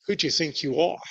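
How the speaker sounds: mild, rising English-style query; a restrained English reading of the question; polite English tone. Shown as a demonstration. Reading the leaders' challenge, mild English tone. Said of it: "we read that with a kind of English tone of voice".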